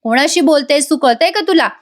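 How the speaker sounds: rising mock anger at a rude sister; angry retort. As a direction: snap back at her in a retold temper. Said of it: "Arjun चिडून म्हणतो".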